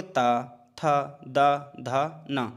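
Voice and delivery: ता, था, दा, धा, ना said with the tongue on the teeth; dental consonant drill. Shown as a demonstration. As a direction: dental sounds demo. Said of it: "दांतों का प्रयोग हो रहा है".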